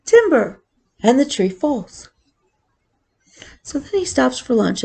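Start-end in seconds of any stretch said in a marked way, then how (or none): 0.1-0.6 lumberjack's call, a little raised; mild mock yell. A narrator's reading. Lumberjack calls as the tree falls, mild yell. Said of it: "And he yells".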